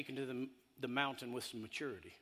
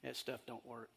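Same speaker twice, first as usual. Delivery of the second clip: mocking devil voice; 3 semitones lower, 7 dB quieter than usual. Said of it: "the devil's not gonna say".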